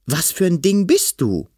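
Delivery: high, loud demanding question; alarmed shout. Acted. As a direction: demand it, scared but brave. Frightened boy confronts monster.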